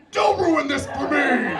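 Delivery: high, slow, hammed-up yell; exasperated mock shout. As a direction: yell it like a desperate, over-the-top plea. Acted plea to screenwriting date.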